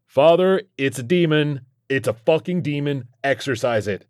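high-pitched cry for help; panicked howl. A narrator's reading. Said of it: "I heard myself howling".

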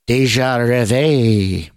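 slow, clumsy French accent on Deja rêve; bad French accent. Shown as a demonstration. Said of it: "that was a horrible French accent".

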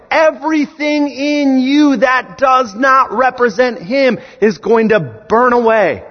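rally the church with rising fire; full-force sermon climax; preaching at full force. Real, not acted.

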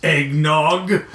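imitated utter conviction; Denholm Elliott. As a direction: declare it with great purpose. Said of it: "Denholm Elliott saying".

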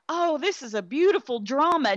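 high, gushing fake praise; mock gushing viewer. Mocking drama fans who call it beautiful, high gushing. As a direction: mimic a cooing fan of the film. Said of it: "and think".

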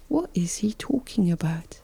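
confused whisper to yourself; hushed, puzzled inner voice; whispered thought. Retold or imitated. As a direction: whisper it as a private aside. Inner thought of baffled patient.

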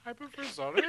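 little brother voice. Retold or imitated. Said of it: "He sound like your little brother".

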